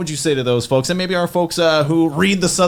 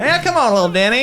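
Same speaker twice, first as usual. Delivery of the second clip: higher, louder cranky uncle voice; Uncle Eldon impression; 8 semitones higher, 4 dB louder than usual. Co-host doing his uncle for the host, higher and louder. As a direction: bark it like a grumpy old uncle. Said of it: "That's a very good imitation".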